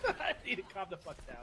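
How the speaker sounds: laughing while talking. Real, not acted. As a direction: chuckle through the words. Laughing at himself.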